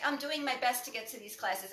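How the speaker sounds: steady, encouraging "I'm doing my best"; positive reframe. Retold or imitated. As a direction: affirm it calmly to yourself. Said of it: "you say".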